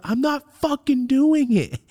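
high-pitched, drawn-out defiant refusal; defiant yell. Retold or imitated. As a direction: dig in and yell your refusal. Retold defiant yell at mother.

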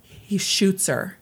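slow, measured storytelling; suspenseful reveal. Real, not acted. Telling co-host what the gunman did, slow suspenseful reveal. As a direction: let the blow land slowly.

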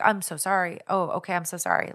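mildly mock the caller's gushing sorry; super apologetic. Caller on the phone apologizing for the wrong number, lightly mock-apologetic. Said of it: "Like, super apologetic".

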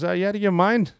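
high-pitched, laughing mock-Boston protest; bad Boston accent. Buddy turns down young Rangers' football challenge, bad Boston accent. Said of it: "my accent sucks. Forgive me".

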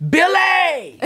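high, loud mock yell of a name; hammed-up angry mom calling out; mom yelling his name. Mother yelling at her son on the phone, mock yell. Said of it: "She yells at me".

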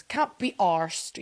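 slow British "Can't be arsed", broad ah in "Can't"; British accent. Retold or imitated. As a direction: imitate a British "arsed", drawn out. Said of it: "how the British people say arsed".

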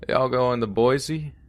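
slow drawling hitchhiker; slow, gravelly stranger asking; gravelly drifter voice. Retold or imitated. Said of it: "he asked in a gravelly voice".

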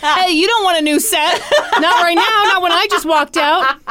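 high, loud protest through laughter; cracking up while objecting; laughing protest. Real, not acted.

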